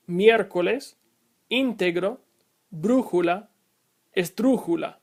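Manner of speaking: miércoles, íntegro, brújula, estrújula read singly, stressed on MIÉR, ÍN, BRÚ, TRÚ; third-to-last syllable stressed. Shown as a demonstration. Teacher reads examples for learners, miércoles to estrújula stressed third from last. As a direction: model miércoles to estrújula, pausing between, stress on the accented vowel. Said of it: "The following examples are pronounced".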